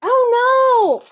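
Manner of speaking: high "oh, no!" in sudden alarm; surprised. Real, not acted. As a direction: yelp it out, caught off guard. Catching a mistake.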